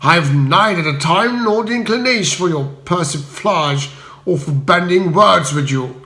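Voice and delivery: a hint of heavy menace; Spode threatening. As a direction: loom over him and threaten.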